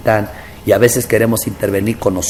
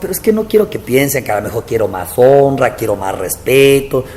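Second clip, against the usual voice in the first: plaintive high protest to God; pleading; 4 semitones higher than usual. Retold or imitated. Pastor retelling his plea to the Lord, pleading high. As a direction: plead your innocence, voice up.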